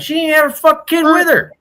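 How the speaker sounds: high, loud, laughing through the words. Real, not acted. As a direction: crack up mid-sentence. Laughing outrage at the story.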